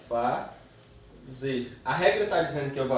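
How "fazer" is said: "fazer" slowly split into fa, zer; syllable by syllable. Shown as a demonstration. Teacher separates the verb, "fazer" syllable by syllable. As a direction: pause between fa and zer in "fazer". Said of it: "Eu separo".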